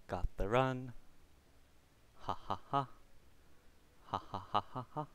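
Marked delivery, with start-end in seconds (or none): 2.2-5.1 laughing. Real, not acted. Laughing at lucky spawn.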